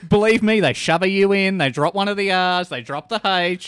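loud, emphatic complaint; heated insistence. Real, not acted. Man complaining about his misspelt surname, loud and heated. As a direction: raise your voice and list each grievance firmly.

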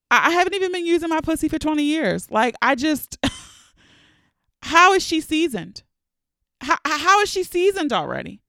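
laughing disbelief. Real, not acted. Incredulous about gray pubic hair.

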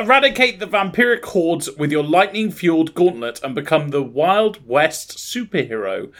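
emphatic promo read-out; announcer read. Acted. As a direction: sell the blurb line by line like an announcer. Reads out the game blurb.

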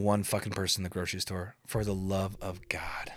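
unvoiced, soft exhausted plea; whisper. Real, not acted. Streamer to viewers, whispered plea. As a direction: breathe it out like a final aside.

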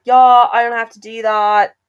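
put-on British accent slipping into Australian; botched British accent. Tourist imitates English husband talking covid, botched British accent. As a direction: attempt British, land accidentally in Australian. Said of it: "Oh, that's Australian".

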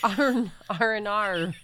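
letters drawn out, sounding Australian; Australian accent. Shown as a demonstration. Trying a friend's accent trick, Australian accent. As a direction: say R N R slowly like an Australian. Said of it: "It sounds like Australian".

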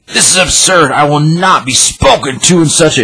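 high-pitched affronted protest; acted indignation. Acted quarrel, Doom takes offence.

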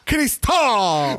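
"Cristal" with a drawn-out, stressed final A; accent on final A. Retold or imitated. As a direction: lean hard on the last vowel of "Cristal". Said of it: "el acento en la A de Cristal".

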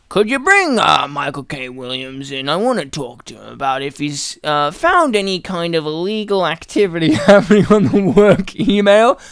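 mock pompous boss giving an order; hint of an ageing executive; old boss. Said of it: "the old white boss being like".

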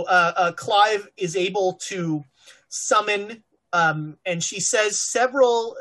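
breathy, airy delivery. Acted. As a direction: speak on a breathy exhale. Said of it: "in a very breathy voice".

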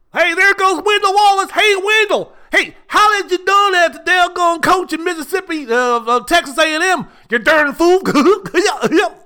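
Southern fan calling out to Wendell; mock Southern heckler. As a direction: yell across the street as a rowdy Southern fan.

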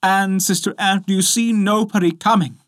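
high, urgent call; crying out. A narrator's reading. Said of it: "and then she cried out".

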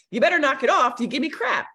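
telling him off, mildly acted; retold firm confrontation.

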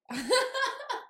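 bright high laugh. Real, not acted. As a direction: burst out laughing. Laughs after greeting.

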